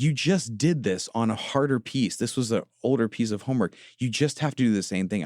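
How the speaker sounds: exasperated dad, lightly voiced; frustrated parent. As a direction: replay snapping at the daughter over homework, half-hearted. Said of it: "I'm getting frustrated with her".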